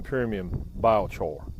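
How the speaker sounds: slow Southern drawl on "premium biochar", BY-oh-chor; Southern twang on "biochar"; Southern accent. Shown as a demonstration. Showing viewers the Southern way to say biochar. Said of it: "that's how they say it down south".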